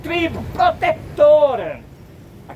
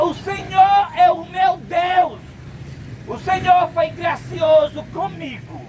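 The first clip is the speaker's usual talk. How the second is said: proclaimed aloud; 3 semitones higher than usual. Real, not acted. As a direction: proclaim it like a creed. Proclaiming the meaning of his name.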